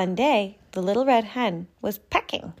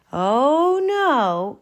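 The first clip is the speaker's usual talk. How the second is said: firm refusal; 8 semitones higher, 6 dB louder than usual. Acted. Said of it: "said the little red hen".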